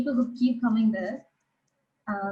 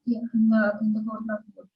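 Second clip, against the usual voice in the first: muffled voice, as if behind a hand. Real, not acted. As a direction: speak through a muffled mouth. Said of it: "your voice is a little bit muffled".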